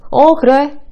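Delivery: ignoring a rude remark, offhand; dismissive. Shown as a demonstration. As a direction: shrug it off uninterested. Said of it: "이러고 말아버리는 거예요".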